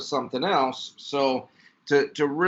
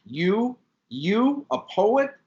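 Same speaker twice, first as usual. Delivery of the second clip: mocking laugh; 9 semitones higher, 3 dB louder, much slower than usual. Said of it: "threw back her beautiful head and laughed".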